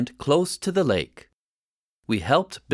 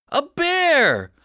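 panicked cry; 12 semitones higher, 3 dB louder than usual. Acted. Boy echoes in panic.

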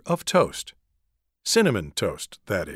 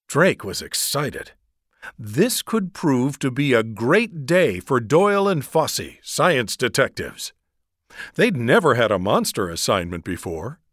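ordinary delivery

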